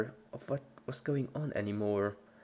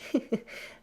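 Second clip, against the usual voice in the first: giggle. A narrator's reading. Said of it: "Pinky giggled".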